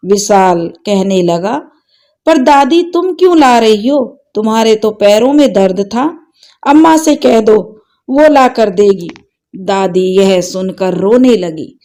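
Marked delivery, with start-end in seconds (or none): 2.3-9.1 put-on lightly raised little boy's voice, puzzled; a small grandson questioning his granny, slightly higher; child voice. Grandson asks grandmother why she fetches milk, light boyish voice. Boy Vishal speaks.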